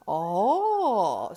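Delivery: the Duke enjoying his honeyed roll; satisfied ah. A narrator's reading. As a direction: content sigh of pleasure over breakfast. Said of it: "said the Duke".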